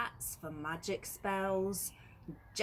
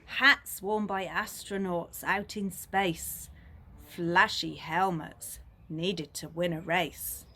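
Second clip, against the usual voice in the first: loud; 6 dB louder than usual. Acted. Exciting space and racing hats.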